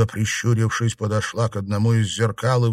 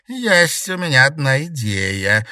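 mysterious smile; 6 semitones higher, 5 dB louder than usual. A narrator's reading. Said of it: "загадочно улыбнулась Гертруда".

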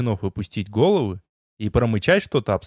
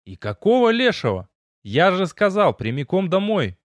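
irritated scolding; 6 semitones higher than usual. A narrator's reading. Hero scolds friends for disobeying.

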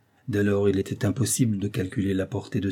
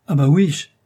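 higher, loud scornful exclamation; insolent disdain; 6 semitones higher, 9 dB louder than usual. Acted. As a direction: brush the offer off with contempt. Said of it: "avec le plus insolent dédain".

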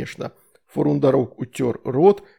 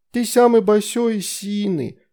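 put-on 1 little girl; 7 semitones higher than usual. A narrator's reading. Little Veronika flatters demon.

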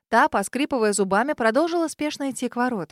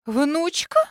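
higher, rising, taken aback; stunned exclamation; 4 semitones higher, 3 dB louder than usual. Acted. Lady stunned to hear of a granddaughter, astonished. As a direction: she never knew there was a granddaughter. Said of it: "ошеломлённо воскликнула особа".

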